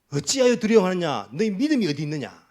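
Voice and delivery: loud scolding of frightened disciples; Jesus loudly scolding the fearful disciples in the storm; scolding rebuke. Retold or imitated. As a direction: rebuke them sharply for their fear. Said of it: "야단 듣습니다".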